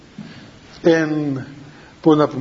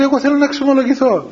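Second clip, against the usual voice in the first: mock crying plea; 5 semitones higher than usual. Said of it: "άρχισε να κλαίει και να λέει".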